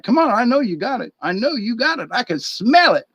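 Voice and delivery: a dog nagging for a treat; pushy dog voice. Pretend. Tramp begging the stoner, high and pushy.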